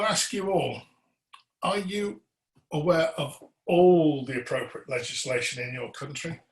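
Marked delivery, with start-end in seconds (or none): 1.6-6.4 "all" leaned on with a rising question, each word weighed; stress on all. Real, not acted. Trainer quizzing the audience on legislation, stress on "all". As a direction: press hard on "all" so nobody misses it. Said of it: "I emphasize the word all".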